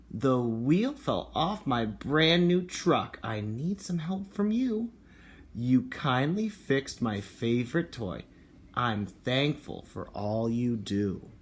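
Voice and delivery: slow, deliberate storybook read; a touch of grumpy storybook voice; reading to children. Acted. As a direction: read it slowly to a kindergarten class. Reads picture book aloud.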